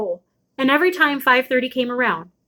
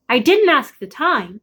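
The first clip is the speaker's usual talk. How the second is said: slow, a little raised mother's retort; mother retorting from the window, mildly raised; mother calling back; 3 semitones higher than usual. Acted. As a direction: call back dryly, drawn out. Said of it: "she called".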